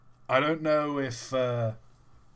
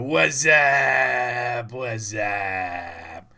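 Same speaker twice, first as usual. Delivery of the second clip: drawn-out mock Wassup call; hammed-up phone greeting yell; wassup ad shout; 4 dB louder, much slower than usual. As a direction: yell it like the Budweiser ad. Retelling Wassup ad callers.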